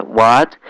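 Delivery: "What" with rising pitch; question tone. Shown as a demonstration. Teacher contrasting English intonation with Chinese, questioning "What". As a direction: turn "What" up at the end. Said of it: "you can use the question tones".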